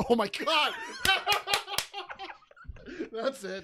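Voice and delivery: shrieking with laughter; laughing hard. Real, not acted. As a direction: burst out laughing. Cracking up at joke.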